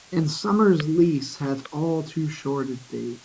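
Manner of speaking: "And summer's lease" read slowly and carefully; slow reread. Shown as a demonstration. Teacher rereading the last line slowly for the class. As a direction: linger on every word. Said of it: "slow reread of the line".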